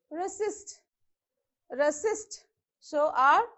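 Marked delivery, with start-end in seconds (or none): 0.1-2.4 Resist with no stress on the R syllable; reSIST, weight on the second syllable of Resist. Shown as a demonstration. Teacher showing students how to say Resist, second-syllable stress. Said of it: "you have to use a stress".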